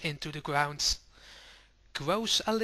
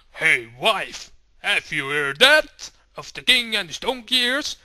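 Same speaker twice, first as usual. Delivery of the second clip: loud, eager husband telling his wife; excited gossip; 7 dB louder than usual. Acted. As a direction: call to her eagerly. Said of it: "And they all go like".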